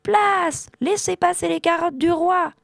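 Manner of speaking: crié très haut pour se frayer un passage; en criant. A narrator's reading. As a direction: lance l'annonce à toute la basse-cour. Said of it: "en criant". (Arthur crie en traversant la basse-cour)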